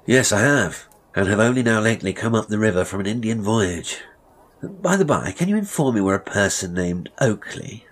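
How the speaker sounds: brisk, confident gentleman customer; lightly voiced gentlemanly officer. Lieutenant asking the barber for directions, courteous. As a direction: answer openly as a returned voyager.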